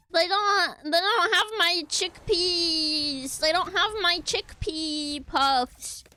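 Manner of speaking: slow, high fake sob; mock crying. Streamer fake-sobbing over missing chickpea puffs. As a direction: wail it like a tragedy, hammed up. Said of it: "I was trying to do a bit".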